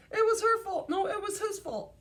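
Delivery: hammed-up children yelling blame; shouting kids. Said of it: "pointing at each other and shouting".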